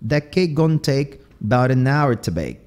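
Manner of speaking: "gonna" said as "gon", "about" as "bout"; Southern clipped words. Shown as a demonstration. Teacher showing the cuts, "gonna" and "about" shortened. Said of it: "eles vão cortando aqui".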